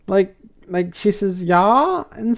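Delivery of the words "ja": lightly imitated Germanic "ja"; a rough attempt at a Nordic accent. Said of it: "German or Nordic accent".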